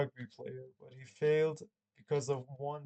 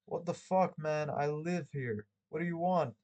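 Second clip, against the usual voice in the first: phony indignant yell; 2 semitones higher than usual. Acted. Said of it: "I yelled ... with phony indignation".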